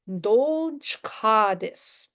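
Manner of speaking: Don't chka this, stretched slowly, word by word; slow it right down for the learner; very slow teaching demo. Shown as a demonstration. Teacher modelling the phrase for the student, very slow.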